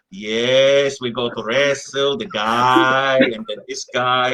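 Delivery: low-pitched mock promoter voice; quoted show promoter. Wrestler retelling promoter's match announcement, mock low voice. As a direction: drop down low to imitate the promoter.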